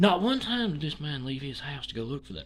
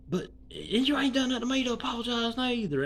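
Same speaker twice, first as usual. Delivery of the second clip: a hint of mocking Square; 10 semitones higher than usual. Retort to Square.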